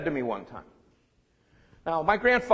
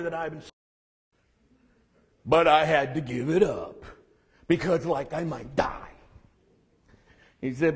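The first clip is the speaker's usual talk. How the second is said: gruff grandpa voice. Retold or imitated. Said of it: "gruff voice that he had".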